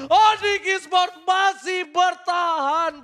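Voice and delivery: drawn-out hype call. Real, not acted.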